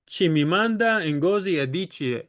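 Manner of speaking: name said in a mock African accent. Shown as a demonstration. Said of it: "That's my, my best African accent".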